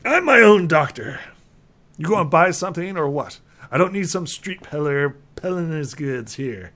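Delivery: high, loud, indignant crank; cranky outburst, starting at full volume; not-quite-sane alchemist. Acted. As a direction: play an unhinged alchemist turning away a rival. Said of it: "alchemist who's not quite sane".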